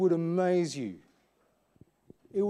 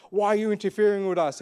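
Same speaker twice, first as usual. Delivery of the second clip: mildly irritated mock challenge, a little raised; puffed-up demon; 3 semitones higher, 3 dB louder than usual. Little demon challenging Jesus, puffed-up and irritated. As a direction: puff your chest up, lightly acting it. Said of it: "puff his chest up".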